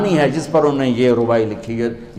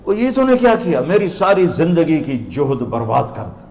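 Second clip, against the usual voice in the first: dismayed protest; 2 semitones higher than usual. Retold or imitated. Scholar whose life's work is ruined, dismayed protest.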